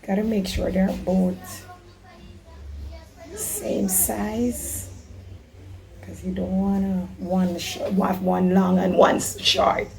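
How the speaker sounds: talking with a hoarse, worn voice; hoarse voice after losing it. Real, not acted. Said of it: "I'm just, like, a little bit hoarse".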